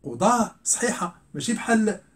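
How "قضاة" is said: قضاة ending in h, "qudaah"; ta pronounced as ha. Shown as a demonstration. Teacher confirming the valid reading, قضاة ending in h. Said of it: "يمكن أن أنطقها هاء".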